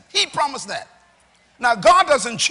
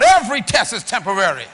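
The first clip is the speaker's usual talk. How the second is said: raised-voice rallying declaration; loud; 4 dB louder than usual. Shown as a demonstration. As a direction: say it loud for the congregation. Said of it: "I'm gonna say it loud".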